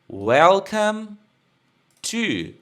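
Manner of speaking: "Welcome to" said slowly and clearly; teacher modelling "Welcome to" for the class; model pronunciation. Shown as a demonstration. Teacher showing the class how to say "Welcome to". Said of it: "Como que pronuncia?".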